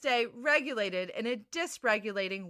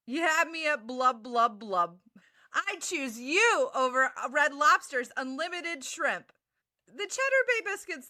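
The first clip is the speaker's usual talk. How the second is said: love bombing. Acted. Cheesy fish valentine lines.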